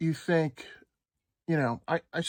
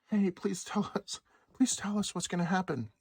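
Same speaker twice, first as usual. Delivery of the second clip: mock pleading; 4 semitones higher, 4 dB quieter than usual. Everyone begging the Fed for answers, mock pleading. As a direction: beg the Fed like a needy child. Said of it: "everyone looks at the Fed and goes".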